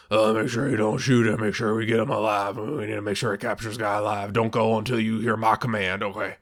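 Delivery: put-on husky, mumbled commander; husky Seagal mumble. Mocking the actor leading a capture mission, husky mumble. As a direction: slur the orders together in a mock husky voice. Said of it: "huskiest, mumbliest, hardest to understand voice".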